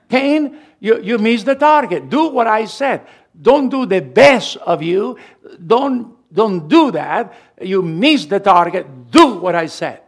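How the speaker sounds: insistent preacher voicing God's rebuke; God rebuking Cain. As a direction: reprove Cain forcefully, hitting the key words.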